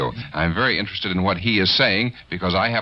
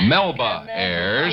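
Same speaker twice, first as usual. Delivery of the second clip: laughing; much slower than usual. Real, not acted. Laughing over his misspelled name.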